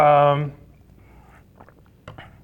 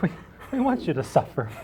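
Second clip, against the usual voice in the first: mock sinister whisper; 7 dB quieter, faster than usual. Quoting staff in a hush.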